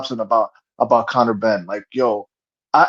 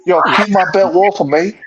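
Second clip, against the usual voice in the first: lightly put-on American accent on the quote; a hint of a brash American fighter; American accent impression; 2 semitones higher than usual. Friends mocking a fighter's brag, in an American accent. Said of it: "That was a good accent".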